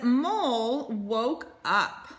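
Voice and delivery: slow, gentle read-aloud voice; slow storytelling read. A narrator's reading. Teacher reading a picture book to her class, slow and gentle. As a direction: read it slowly like to young kids.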